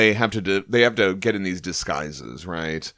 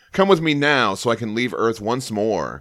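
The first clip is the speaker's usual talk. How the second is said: booming herald voice; 3 semitones higher than usual. Acted. Reads Silver Surfer's lines.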